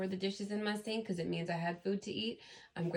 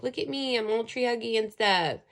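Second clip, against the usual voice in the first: mock-enthused tree-hugger, higher and louder; loud, raised mocking quote; ironic; 3 semitones higher, 7 dB louder than usual. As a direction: make fun of yourself being tree huggy. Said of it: "you might think you're being ironic".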